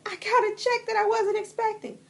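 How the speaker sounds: high, loud, delighted exclamation; giddy, celebrating an unexpected windfall; thrilled good news. Pretend. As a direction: burst out with the lucky surprise. Acts out delight at unexpected money.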